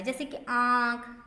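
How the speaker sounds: आँख said slowly with the vowel through the nose; teacher models the chandrabindu sound in आँख; nasal demo. Shown as a demonstration. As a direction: stretch आँख and let it ring in the nose. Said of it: "इसे नाक और गले दोनों से बोला जाता है".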